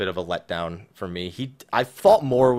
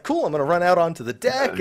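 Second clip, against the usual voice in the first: careless player voice; 7 semitones higher than usual. Retold or imitated. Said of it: "they're just like".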